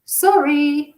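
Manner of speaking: loud hurried sorry; calling back. A narrator's reading. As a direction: call back while running. Doctor calls back.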